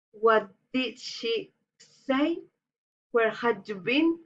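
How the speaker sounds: courteous questions rising at the end; polite rising intonation. Shown as a demonstration. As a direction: lift the last word politely. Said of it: "reason intonation".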